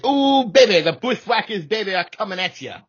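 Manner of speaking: high, excited promo voice; wrestling promo. Pretend. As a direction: hype it like a ring announcer. Hyping wrestlers promo style.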